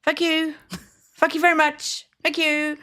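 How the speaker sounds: high, chirpy run-together thanks; said really quickly. Retold or imitated. Shop worker to annoying tourists, really quick thanks. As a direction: rattle off a sunny thanks that blurs into swearing. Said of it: "used to say really quickly".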